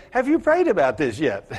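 laughing while quoting the pastor; quoting through laughter. Retold or imitated. Pastor quoting his own advice back, laughing. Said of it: "My pastor would say".

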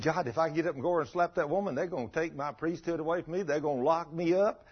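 worried priest arguing back; alarmed protest. Retold or imitated. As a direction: plead your case, voice climbing. Priest protesting to God in story.

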